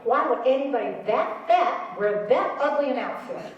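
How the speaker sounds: mock outraged scream, half laughing; retold scream. Mother with Alzheimer's blurting in the waiting room, mock scream. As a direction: blurt it out loud like a tactless mother. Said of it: "screams out".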